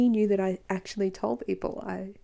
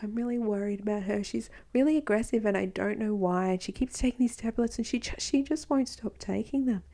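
fake empathy; 2 semitones higher than usual. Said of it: "that fake empathy trick he used to deliver it".

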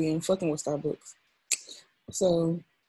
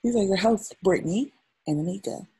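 newscaster voice. Pretend. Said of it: "white newscaster voice".

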